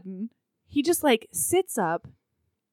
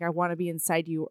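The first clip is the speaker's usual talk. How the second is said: murmured; 6 semitones lower, 8 dB quieter, faster than usual. Retold or imitated. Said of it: "talks in her ear".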